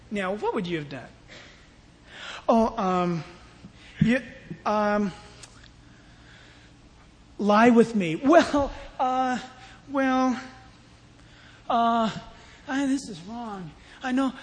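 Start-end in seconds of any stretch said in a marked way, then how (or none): 2.5-14.3 halting, tempted stammer; hesitant Joseph. Acted. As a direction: stall with broken, uncertain fillers. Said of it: "No, he didn't even do that".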